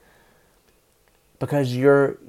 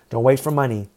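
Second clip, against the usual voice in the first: speaking through hiccups; words broken by a hiccup. Real, not acted. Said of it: "I got the hiccups there".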